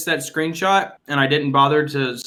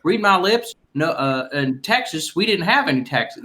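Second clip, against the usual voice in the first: George H W Bush. Shown as a demonstration. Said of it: "H W, you know".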